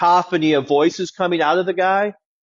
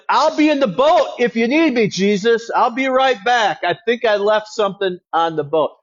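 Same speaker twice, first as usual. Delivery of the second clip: higher, nervous mock excuse; scared disciple; 5 semitones higher than usual. Scared disciple to Jesus, nervously excusing himself. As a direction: bail out with a jittery joke. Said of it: "you'd be like".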